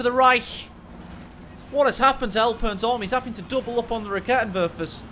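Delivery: punchy esports commentary; excited game caster. Real, not acted. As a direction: call the action live with rising excitement.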